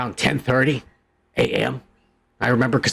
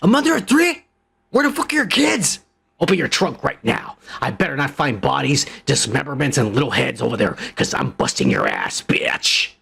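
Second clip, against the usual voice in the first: imagined tirade; 3 semitones lower than usual. Pretend. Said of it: "what I would have said".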